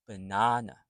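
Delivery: "Banana" as buh-NAH-nuh; full middle vowel in "Banana", reduced first and last; schwa sounds. Shown as a demonstration. Teacher shows schwa sounds, "Banana" with weak outer vowels. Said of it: "The first and the third are schwa".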